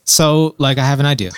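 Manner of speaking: lightly put-on concerned white man; a hint of earnest white-man concern. Co-host pitching an idea to the panel, lightly put-on concerned white man voice. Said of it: "he put his concerned white man voice on".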